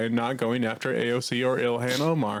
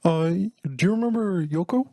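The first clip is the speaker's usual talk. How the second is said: lightly voiced British musician, hesitant; a mild put-on Beatle voice, slightly halting; Paul McCartney; 2 semitones higher than usual. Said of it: "So I'll be Paul".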